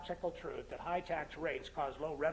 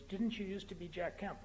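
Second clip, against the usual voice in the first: lightly put-on Oxfordian accent, a little softer; imitated Oxfordian accent; 6 dB quieter than usual. Taxi driver turning back to his passenger, imitated Oxfordian accent. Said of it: "in perfect Oxfordian accent".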